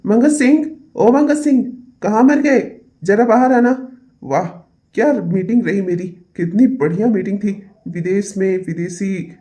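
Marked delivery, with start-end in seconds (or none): 0.1-4.0 calling out. Acted. Calling servant from afar.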